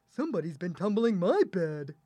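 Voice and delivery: lightly voiced middle-sized bear; a milder character voice for the middle bear. A narrator's reading. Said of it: "the middle-sized bear said".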